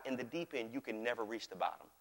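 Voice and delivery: low, soft statement; hushed teaching. Real, not acted. Pastor teaching on the deep end of God's kingdom, hushed teaching. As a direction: let it sink down quietly.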